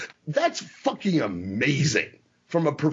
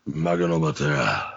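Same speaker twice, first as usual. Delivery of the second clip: Russian accent impression; 12 semitones lower than usual. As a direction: play the Soviet wrestler in a heavy Russian accent, dragging each word. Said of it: "there's a difference in my Russian".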